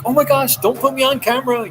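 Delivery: high, flustered imitation of a camera-shy librarian; mock freak-out. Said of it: "They'd be like".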